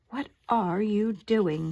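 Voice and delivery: slow, loud, indignant director; a fussy film director crying out; cried out. A narrator's reading. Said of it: "cried the man".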